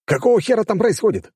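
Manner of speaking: high angry shout; yelled. A narrator's reading. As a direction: yell it at the screen. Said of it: "заорал я". (громкий возмущённый крик)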